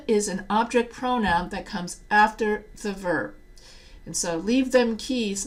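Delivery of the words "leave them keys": slow, mock Southern accent of a Texan relative. Shown as a demonstration. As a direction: poke fun at a Southern relative saying the wrong form, slowly. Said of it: "the reason why I did the Southern accent".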